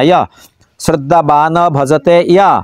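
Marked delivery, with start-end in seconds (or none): 0.0-0.2 ইয় said as "iya", not as জয়; ইয় pronounced "iya" in Sanskrit style; Sanskrit pronunciation. Shown as a demonstration. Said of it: "জয়ের উচ্চারণ হয় না".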